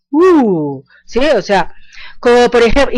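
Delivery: usual speaking voice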